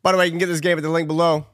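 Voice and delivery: fast mock ad read; fast, mock promo voice. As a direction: rattle it off like a sponsor plug.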